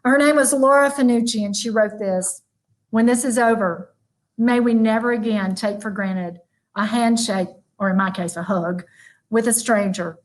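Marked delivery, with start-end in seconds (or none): 2.9-10.2 poem reading. Acted. Closing speaker reading a woman's covid poem, gently. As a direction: read each line like a gentle list.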